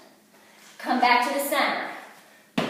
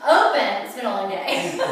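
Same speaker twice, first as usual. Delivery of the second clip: laughing; 2 semitones lower, 3 dB louder than usual. Real, not acted. Laughing while demonstrating.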